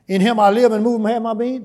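bold confident declaration; declaring voice. Real, not acted. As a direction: proclaim it with full conviction. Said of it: "sickness and disease don't fit in this voice".

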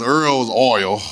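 "Earl" in dialect, then "oil" with full oy sound; low teacherly "Earl", corrected to "oil"; dialect then standard. Shown as a demonstration. Preacher bringing congregation to class, contrasting pronunciations. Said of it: "Let me bring y'all to class".

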